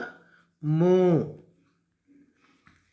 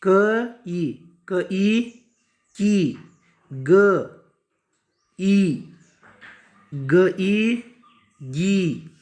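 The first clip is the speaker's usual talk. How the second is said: measured letter-plus-vowel chant; drawn-out syllables with pauses; spelling-out recitation; much slower than usual. Shown as a demonstration. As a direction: join each sound aloud for pupils. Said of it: "क में क्या करना है".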